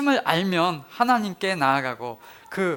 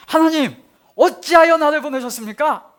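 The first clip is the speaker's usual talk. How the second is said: much higher, louder, aggrieved cry; resentful outcry; 9 semitones higher, 8 dB louder than usual. Retold or imitated. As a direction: fling the complaint at God in frustration. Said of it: "원망과 투정 섞인 뉘앙스". (원망과 투정 섞인 외침)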